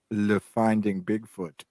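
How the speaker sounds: slow, put-on French accent on the title; mock French accent. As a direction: fake the French slowly, half-laughing. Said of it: "That wasn't French".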